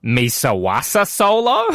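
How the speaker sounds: slow, half-hearted alien crime boss; deliberately poor take on an alien voice; Jabba the Hutt. Acted. Host giving guessable line, slow alien impression. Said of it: "It's Jabba the Hutt".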